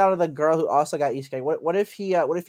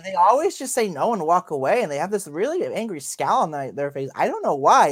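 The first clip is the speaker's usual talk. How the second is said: complaining hero; 3 semitones higher than usual. Acted. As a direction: play the baffled hero moaning about being turned down. Voices the hero complaining of rejection.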